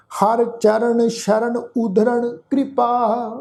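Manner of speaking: slow, measured verse reading with held vowels; drawn-out devotional reading; scripture recitation. Shown as a demonstration. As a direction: recite the sacred verse slowly, stretching the endings.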